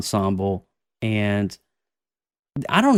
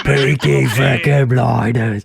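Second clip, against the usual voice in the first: drawn-out, louder hype shout; excited outburst; 6 dB louder, slower than usual. Real, not acted. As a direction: whoop it out slowly over the others. Excited reaction to cast news.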